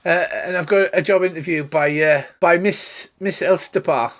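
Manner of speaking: put-on a shy girl growing eager; halfling girl. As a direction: boast a little, eagerly. Scylla continues.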